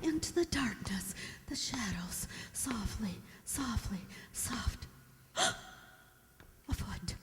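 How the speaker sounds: low, soft breathless whisper. Acted. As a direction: creep the words out in fear. Creeping down the dark stairs.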